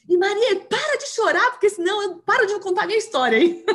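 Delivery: high, bright scolding tease, fast; teasing friend. Retold or imitated. Friend scolds teller at lunch, high mock-scolding tease. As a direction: playfully scold her to stop crying.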